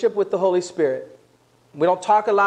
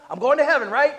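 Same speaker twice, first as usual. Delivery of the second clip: high, insistent self-justifying; mock defensive protest; 6 semitones higher, faster than usual. Believer refusing more of the Spirit, mock defensive. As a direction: pitch it up like a defensive objector. Resister's voice, then answered plainly.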